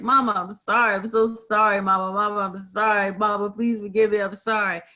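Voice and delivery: mock sobbing plea. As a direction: lightly act out a tearful apology to mama. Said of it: "participants was just sobbing".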